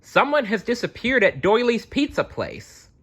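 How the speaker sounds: high-pitched Scottish constable calling out; Scottish shout. A narrator's reading. Constable urging the detectives to hurry, in a high Scottish voice. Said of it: "the Scottish Carrot Constable".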